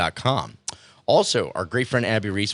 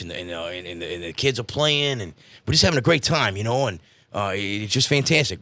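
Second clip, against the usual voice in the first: Joe voice. Retold or imitated. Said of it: "Joe, tell me about your vacation".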